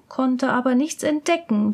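ordinary delivery, nothing marked

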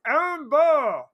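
mumbled through peanut butter; mouth full of peanut butter. Shown as a demonstration. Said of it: "But if you say that with a mouthful of, of, uh, peanut butter".

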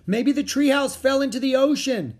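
high, loud alarmed guess; worried high yell; shouting. A narrator's reading. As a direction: shout it over the noise. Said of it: "shouted Jack".

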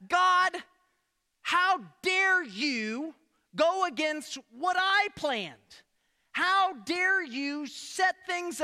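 hammed-up how dare you; indignant Jonah. Preacher voicing Jonah scolding God, mock indignant. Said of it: "having this conversation with God".

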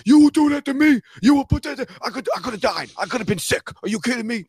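high, indignant mock outrage; drama king. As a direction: wail accusingly like an overdramatic friend. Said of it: "drama king".

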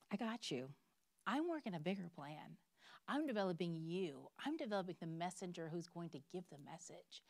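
softly spoken answer from God; calm reassurance. Acted. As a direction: reassure gently after the outburst. God calmly answering the complaint.

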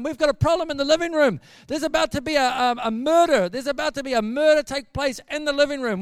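loud, high-pitched frantic warning; freaking out. Retold or imitated. Gary warning everyone of a murder in the living room, freaking out. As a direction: raise the alarm, tripping over words. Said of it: "freaking out".

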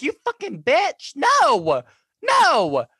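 high, loud mock-furious yell at the show; mock outrage. Viewer hams up anger when the episode ends, mock-furious yell. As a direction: scream at the screen in jokey fury. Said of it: "And it's like".

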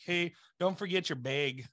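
imitated Upper Midwest accent, BAG closer to BEG; mock Midwestern accent on BAG; imitated regional accent. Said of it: "I've heard so many times".

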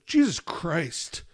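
drawn-out imitated swearing; slow mock exasperation; exasperated toddler. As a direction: stretch both words out slowly. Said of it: "she's like".

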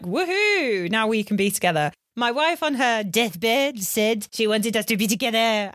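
bad French accent, slowed at the end; hammed-up French accent; Lance. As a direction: celebrate in a put-on French accent. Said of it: "a really bad French accent".

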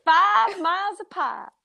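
FIVE with a flattened vowel, near "fahv"; drawled five. Real, not acted. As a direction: let FIVE lose its glide, like "fahv". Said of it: "Oh, 'cause you say five".

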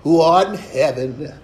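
slow, mock-solemn recitation; recited prayer. Churchgoer reciting the Lord's Prayer by rote, mock-solemn. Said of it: "we go".

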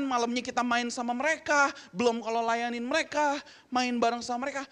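lively emphatic recounting; emphatic listing. Real, not acted. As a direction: pile up every tiring chore. Listing how tiring days were.

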